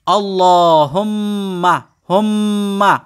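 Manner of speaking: হুম্মা with the মিম held and nasalised; nasal ghunna. Shown as a demonstration. Teacher demonstrates ghunna on হুম্মা, humming the m. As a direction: linger on the doubled m of আল্লাহুম্মা. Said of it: "সেখানে ওয়াজিব গুন্না".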